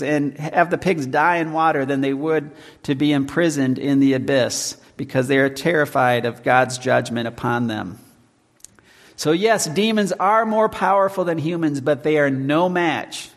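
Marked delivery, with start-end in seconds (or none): none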